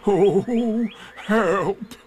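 high wailing call; cry for help. Acted. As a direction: wail for help as a fallen bear. Pooh lands in the bush.

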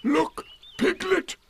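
very high, slow delighted call; excited. A narrator's reading. Eeyore proudly calling Piglet to watch. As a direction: show it off, thrilled.

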